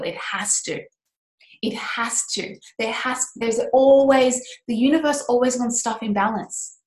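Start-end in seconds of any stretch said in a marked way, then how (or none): 0.0-0.8 softer, sinking into self-reassurance; quiet reassurance. Real, not acted. Host reassuring listeners, quiet and settled. 1.6-2.6 whispered, barely there. Real, not acted. Host assuring herself again, in a whisper.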